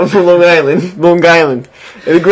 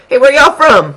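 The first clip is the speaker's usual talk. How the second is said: mock Southern twang, much higher; mock Southern accent; 11 semitones higher, 5 dB louder than usual. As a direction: put on a Florida twang. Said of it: "I tell people".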